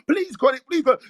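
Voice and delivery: hammed-up plea for mercy; mock begging. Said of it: "begging me to not".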